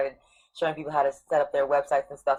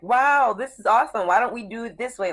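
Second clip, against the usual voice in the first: higher-pitched wow of delighted discovery; excited mock reaction, pitched up; amazed discovery; 7 semitones higher, 5 dB louder than usual. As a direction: act out being pleasantly amazed. Acting out awed reader of laws.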